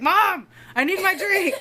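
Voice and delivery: put-on high, loud whiny kid demanding attention; pestering child imitation. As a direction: mimic a little kid nagging mom. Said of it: "following me around doing like this".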